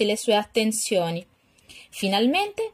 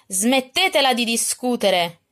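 scolding stepmother; 3 semitones higher, 3 dB louder than usual. Acted. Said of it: "le rimproverò la matrigna".

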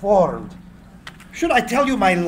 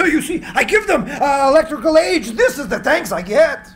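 bitter laugh; 6 semitones higher than usual. Acted. Tesla laughs bitterly at ingratitude.

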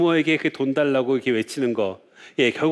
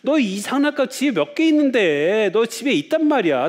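put-on higher-pitched, exasperated mum telling off her child; scolding mother; 8 semitones higher than usual. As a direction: imitate a mother refusing a toy plea. Mother scolding child over toy.

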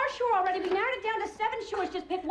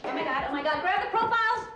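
excited urgency. Acted. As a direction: burst into a frantic order. Husband scrambles at the news.

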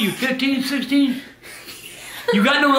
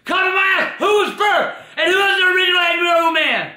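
indignant shout. Real, not acted. Grandpa indignant at copy claim.

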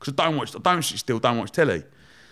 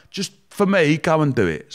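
imitating wife; 5 semitones higher, 5 dB louder than usual. Wife pleading.

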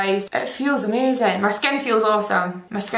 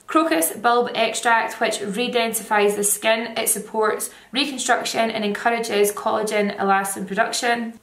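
face covered by mask; speaking through a sheet mask. Real, not acted. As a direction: lips framed by mask. Seen 1: White sheet mask covers face throughout; mouth opening left free.

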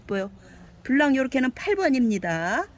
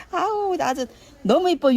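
gushing delight; 8 semitones higher, 5 dB louder than usual. Real, not acted. Gushing over a pretty plant.

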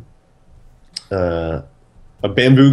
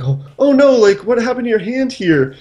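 put-on girlfriend's concern; 11 semitones higher than usual. Girlfriend voiced in story.

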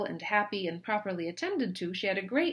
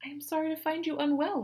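lightly voiced higher, gentle young woman; a hint of a kind sister; Anne sympathetic; 10 semitones higher, 3 dB louder than usual. A narrator's reading. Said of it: "replied Anne".

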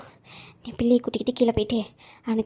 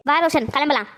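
tearful. Acted. Insulted mother leaves in tears.

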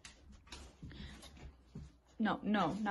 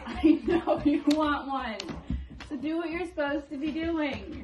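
firm dog command; 5 semitones higher, 9 dB louder than usual. Real, not acted.

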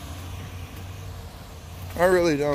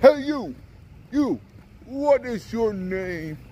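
The Rock impression. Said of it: "that The Rock picks on".

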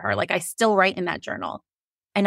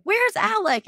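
playful sing-song; 13 semitones higher, slower than usual. Retold or imitated. Mock question in videos to friends.

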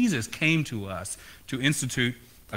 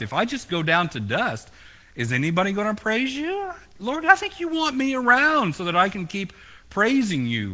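bargaining with God; 3 semitones higher than usual. Acted. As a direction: wheedle God like a salesman. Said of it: "he starts bargaining with God".

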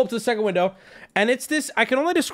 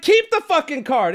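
higher-pitched mock huff; joking outrage; 5 semitones higher than usual. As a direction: fling it back in joking indignation. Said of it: "I'm joking at this point".

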